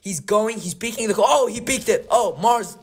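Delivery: rising excited play-by-play; hyped gamer calling the kill; excited commentary. Real, not acted. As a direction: call the action as it happens. Live excited commentary on kills.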